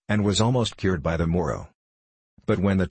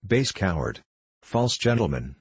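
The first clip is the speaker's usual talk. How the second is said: ordinary delivery, nothing marked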